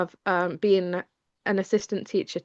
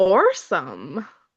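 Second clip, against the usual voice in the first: loud, badly faked Canadian accent; 5 dB louder than usual. Retelling how an audiobook narrator said a word: imitating a bad Canadian accent. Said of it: "the Canadian accent of the, um, narrator wasn't ideal".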